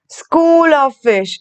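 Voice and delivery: shoal of fish, each word slow and clear; slow teacher dictation. Shown as a demonstration. Teacher dictating collective noun, very slow. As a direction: spell it out slowly for the class. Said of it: "collective noun में सीखा था".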